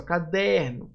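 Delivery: "caderno" leaning on middle DER; stress on DER. Shown as a demonstration. Teacher repeating the example for students, stress on DER in "caderno". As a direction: press DER in "caderno", let NO fall away. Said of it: "O der aqui vai ser a sílaba mais forte".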